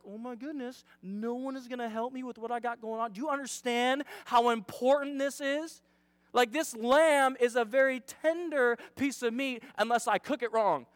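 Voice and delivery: acted pent-up exasperation; seething. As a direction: start under the breath, build to emphatic complaint. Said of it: "she's just seething. Angrier and angrier".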